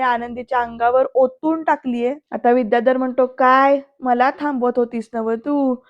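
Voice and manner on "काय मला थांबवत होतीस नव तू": imitating a taunting put-on protest, slightly raised; mock play-acting. Vidyadhar mimics the house rules at the family, mock play-acting. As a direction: parrot the house rules theatrically. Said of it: "असं नाटक करत विद्याधर म्हणतो".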